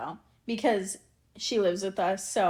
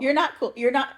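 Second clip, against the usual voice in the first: put-on teen sass; 4 semitones higher, 5 dB louder, faster than usual. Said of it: "actually, he doesn't say".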